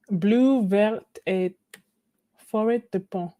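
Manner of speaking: put-on reading out in a French accent. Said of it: "Your French accent is on point".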